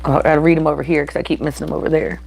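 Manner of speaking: words broken by burps; talking while burping. Real, not acted. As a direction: speak through little burps. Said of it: "sorry, I keep bur-, burping".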